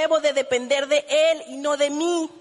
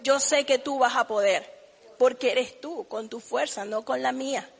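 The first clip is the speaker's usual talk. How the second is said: humble prayer. Retold or imitated. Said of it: "centrarme y decir".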